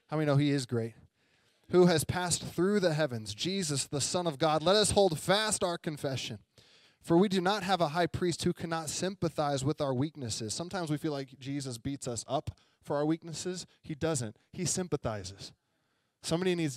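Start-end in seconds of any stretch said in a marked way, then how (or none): 1.7-10.5 raised, measured Bible-reading voice; scripture reading. Acted. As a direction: read the verse out to the congregation. Reads scripture aloud.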